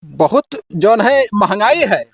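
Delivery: slow boozy mumble; lazy drunk drawl; town drunk. Acted. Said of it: "अरे तू बेवड़ाऊ".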